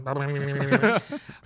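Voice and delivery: rumbling hum like a cat; cat purr imitation. Shown as a demonstration. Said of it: "that's how Lily purrs".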